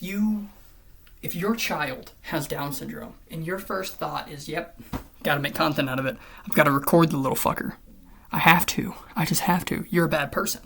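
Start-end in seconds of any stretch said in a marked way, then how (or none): 4.5-9.9 loud, hammed-up parent who has to film it; mock greedy parent. Mocking a parent who films a child for content, loud and eager. 9.9-10.6 You're said loud, a flat final judgment; loud verdict. Real, not acted. Telling such parents off, loud and firm. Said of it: "I, I don't care".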